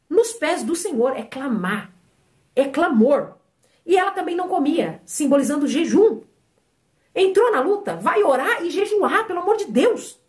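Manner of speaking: ordinary talk, nothing marked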